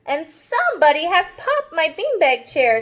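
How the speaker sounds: lightly voiced upset child; a hint of a high sulky kid; little girl voice. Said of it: "said the little person".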